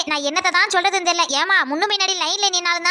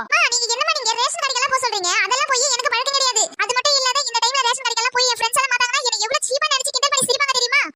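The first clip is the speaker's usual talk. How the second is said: put-on higher, huffy young girl voice; indignant teen daughter; 4 semitones higher than usual. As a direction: refuse the errand like a spoiled teen. Daughter voice held.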